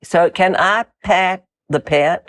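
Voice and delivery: South African vowels, "pet" said like "pit"; slow South African "So can I pet the pet?"; South African accent. Shown as a demonstration. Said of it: "Can you see?".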